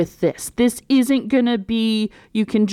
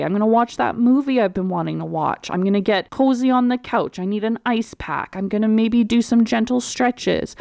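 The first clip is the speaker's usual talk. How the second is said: easy, unhurried self-care voice; calmer, relaxed. Shown as a demonstration. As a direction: talk it through gently, no panic. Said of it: "see how I'm talking about that. Way better".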